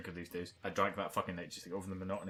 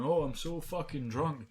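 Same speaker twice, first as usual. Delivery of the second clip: higher, slow slurry boast; mock drunk kid; 5 semitones higher, 3 dB louder, slower than usual. Imitating a scene kid pretending to be drunk, slow. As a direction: play a tipsy scene kid, drawn out. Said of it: "proceeded to fall about the place going".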